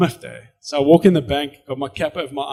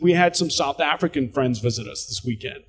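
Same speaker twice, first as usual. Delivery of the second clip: put-on hide the South African sound with an American accent. South African man faking an American accent to a teller. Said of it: "with an American accent".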